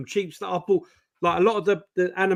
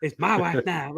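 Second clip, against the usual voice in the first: a lighter replay of the creepy doorstep voice; joking pegs seller impression. Retelling the joke he shared with his brother, in mock creepy voice. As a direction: tease like the old brothers' joke. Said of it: "That's what we used to do, innit? Like, as a joke".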